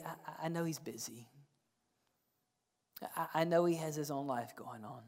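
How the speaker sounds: imitated reluctant murmur; quiet resignation. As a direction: say it small, as if not wanting to bother him. Voicing loved ones reluctant to ask.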